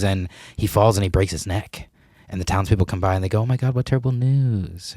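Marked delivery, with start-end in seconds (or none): 3.4-4.9 higher townsfolk lament; mock dismay. Townspeople to farmer about his injured son, mild mock dismay. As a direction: lightly imitate townspeople aghast.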